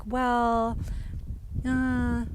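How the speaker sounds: hesitant, drawn-out hedging; lightly voiced dad. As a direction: stall politely like a dad avoiding bluntness. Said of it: "my dad would have been like".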